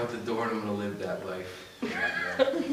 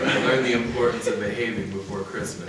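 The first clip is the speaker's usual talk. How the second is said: laughing through words; 3 semitones higher, 15 dB louder than usual. Real, not acted. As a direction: talk through lingering laughter. Still laughing at the memory.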